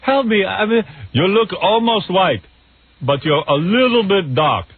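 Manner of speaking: pleading damsel. Pretend. Host parodies the movie's heroine begging for help, high and slow. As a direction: beg for help in a high put-on falsetto.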